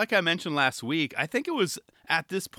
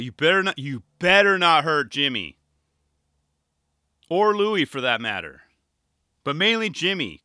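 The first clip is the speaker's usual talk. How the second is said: mild mock warning; 3 dB louder than usual. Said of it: "I'm like".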